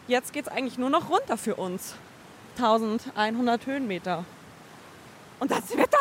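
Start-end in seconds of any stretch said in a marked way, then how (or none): 5.4-6.0 high, bright exclaim; excited cheer. Real, not acted. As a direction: cheer the finish line. Cheering last downhill stretch.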